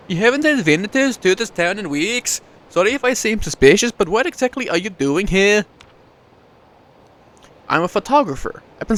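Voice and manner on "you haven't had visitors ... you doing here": lightly higher village woman; a hint of a curious townswoman; voicing Frida. Frida questioning the stranger, lightly voiced woman.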